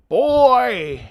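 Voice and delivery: a loud, high burst of awe; excited exclamation. Real, not acted. Streamer overwhelmed by the song, exclaiming loudly.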